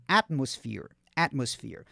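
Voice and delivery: "atmosphere" with PH said as a clear F; plain F sound. Shown as a demonstration. Teacher correcting learners' TH, "atmosphere" with an F sound. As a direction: say the PH in "atmosphere" as F, teeth on lip. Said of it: "É um F mesmo".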